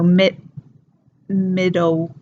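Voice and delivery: "middle" ending in an uh or W sound instead of L; dark vocalized L. Shown as a demonstration. Teacher showing the Cockney L, "middle" ending like middo. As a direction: let the L of "middle" melt into a W. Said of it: "more of a uh sound".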